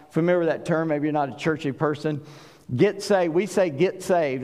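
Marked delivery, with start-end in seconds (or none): 2.8-3.3 "Get" said as "git"; Southern "git" for "Get"; Southern pronunciation. Shown as a demonstration. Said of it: "we pronounce it G I T". 3.7-4.4 "get" said as "git"; Southern "git" for "get"; Southern pronunciation. Shown as a demonstration. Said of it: "That's very Southern".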